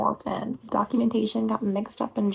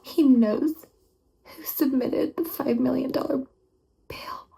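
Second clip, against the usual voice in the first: louder rising He knows, in shock; stunned disbelief; 3 semitones higher, 3 dB louder than usual. Acted. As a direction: repeat it as the shock lands. Learning about her birth parents.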